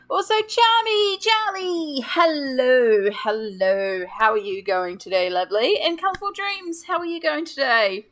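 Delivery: vibrating robot voice from massage gun. Real, not acted. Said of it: "I do sound like a robot".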